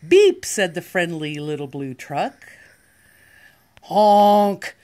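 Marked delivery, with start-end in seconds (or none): 0.1-0.4 high loud beep; loud horn beep. Acted. Truck horn in a picture book. 3.8-4.7 yelled honk. Acted. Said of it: "yelled a dump truck".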